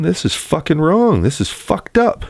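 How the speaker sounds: imitating Haley. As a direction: parody the screaming sister. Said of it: "that was Haley".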